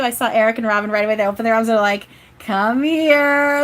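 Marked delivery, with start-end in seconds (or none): 2.4-3.6 high, loud, gushing invitation; effusive welcome. Retold or imitated. Spirits opening arms to Carolyn, effusive welcome. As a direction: call them in for a big hug, imitated. Voices spirits calling for hug.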